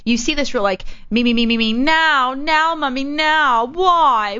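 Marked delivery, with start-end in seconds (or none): 1.1-4.4 high-pitched mock tantrum, climbing as it goes; whiny demanding child. Mocking food-service customers who want it now, whiny demanding child. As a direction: imitate a child nagging mommy, higher and higher.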